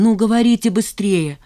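high, loud frightened plea; frightened, urgent. A narrator's reading. Zhanna frightened, urging her friends to speak. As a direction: hurry them, scared of the news. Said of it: "спросила Жанна со страхом".

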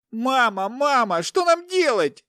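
very high squealing cry; panicked squeal. A narrator's reading. Captive son asks his mother for help, squealing. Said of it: "верещал Игорь".

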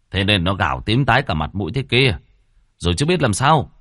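annoyed husband arguing back; irritated retort. Acted. Husband argues over the screaming baby, irritated. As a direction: fire back crossly.

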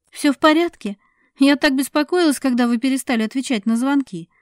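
a woman voiced by the narrator, rushing to ease tension; worried woman. A narrator's reading. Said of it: "Саша говорила без умолку".

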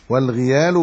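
والغيال said "wal-ghiyaal", short i after gh; والغيال with kasra, as wal-ghiyāl; kasra on the ghayn. Shown as a demonstration. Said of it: "بكسر الغين".

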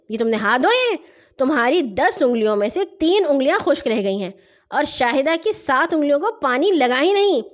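put-on mild older-brother telling-off, rising in force; stern scolding. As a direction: point out each fault with emphasis. Brother scolds over badly washed hands. (ڈانٹتے ہوئے، زور دے کر)

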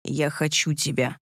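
low, soft, husky; husky low murmur close up; husky whisper. A narrator's reading. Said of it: "хрипло прошептал он".

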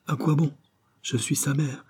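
high-pitched, contained protest; protesting mother. Acted. Mother refusing to let them see her son, protesting.

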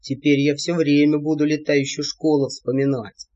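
low, gruff shouted line; shouting giantess. A narrator's reading. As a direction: shout it over the wind. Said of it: "крикнула Алия". (громкий низкий выкрик)

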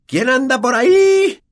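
high, loud, slow sneering spirit; poltergeist Peeves. A narrator's reading. Peeves challenges the unseen intruders, high and sneering. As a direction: call out like a mischievous ghost. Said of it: "dijo de repente".

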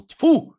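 high, loud spitting cry; high loud spit of disgust. Acted. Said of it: "крикнул".

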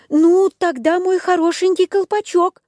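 put-on high squeaky puppet boy; hopeful wooden boy; Buratino voice. A narrator's reading. Buratino offers. (голос Буратино)

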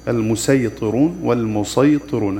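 المسيطرون first with sin, then with sad, slow. Shown as a demonstration. Teacher models both readings of المسيطرون, slowly. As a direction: contrast the thin sin and the heavy sad. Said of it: "تقرأ بالسين والصاد".

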